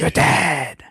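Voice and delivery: high-pitched mock exclamation; exclaimed title. Shown as a demonstration. Host echoes co-host's way of saying the album title, exclaimed. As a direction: echo the title as a dramatic outcry. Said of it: "that's how you pronounce it".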